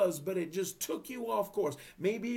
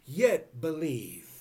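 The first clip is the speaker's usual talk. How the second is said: slow, weighty pronouncement; stern Jesus; 6 dB louder, slower than usual. Acted. Jesus to Thomas, slow stern pronouncement. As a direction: deliver it like a solemn verdict. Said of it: "And Jesus said sternly".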